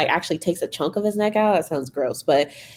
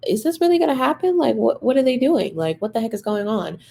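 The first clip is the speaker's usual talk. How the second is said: anxious disbelief; 5 semitones higher than usual. Retold or imitated. Fans torn watching Max scene.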